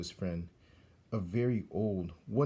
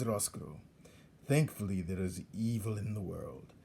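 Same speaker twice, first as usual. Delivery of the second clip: put-on old rat Botticelli. Old rat teaches young rat how to torture prisoners, gloating. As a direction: savour each cruel instruction.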